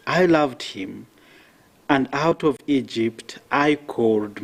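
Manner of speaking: solemn measured Bible reading; scripture reading. Acted. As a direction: proclaim it to the congregation.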